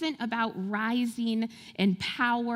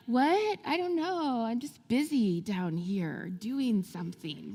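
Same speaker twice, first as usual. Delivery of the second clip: mock kid voice; 3 dB quieter than usual. Kids dodging chores, playful voice.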